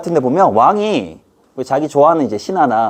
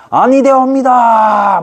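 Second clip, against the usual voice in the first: high, loud, very slow formal objection; protesting minister; 10 semitones higher, 6 dB louder, much slower than usual. Acted. Minister objecting outside while the king eats. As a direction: stretch out the courtly protest. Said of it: "막 이러면서".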